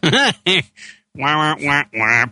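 sad trombone wah wah; mock wah wah wah; muffled wah wah talk. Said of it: "That's not nice".

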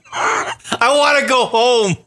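slow, fake-sobbing whimper; slow hammed-up sob; mock crying. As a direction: blubber it slowly, hammed-up. Mock despair after racist driver.

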